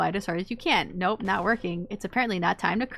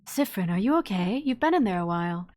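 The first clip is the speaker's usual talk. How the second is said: concerned Odile. Acted. Odile asking Siffrin through the stall door, a hint of concern.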